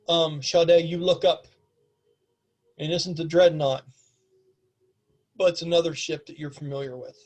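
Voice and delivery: measured, deliberate scene setting; game master narration. A narrator's reading. Game master reveals the airship to players, measured narration. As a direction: unfold the sight piece by piece, with pauses.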